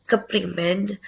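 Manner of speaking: keprimen said the Banyumas way, with a clear k and open vowels; Ngapak word. Shown as a demonstration. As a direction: say keprimen as a Ngapak speaker would. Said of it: "Ngapak accent gonna say".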